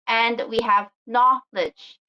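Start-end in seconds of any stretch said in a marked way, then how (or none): 1.1-2.0 "knowledge" with stress on KNOW; stress on first syllable. Shown as a demonstration. Teacher gives a noun example of the rule, stressed KNOW in "knowledge". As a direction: punch the opening of "knowledge". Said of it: "The stress is in the beginning".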